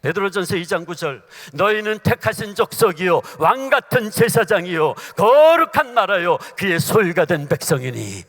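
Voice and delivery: loud and slow, each phrase weighted; loud scripture proclamation. Acted. Preacher reading First Peter to the congregation, loud. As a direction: proclaim the verse with force.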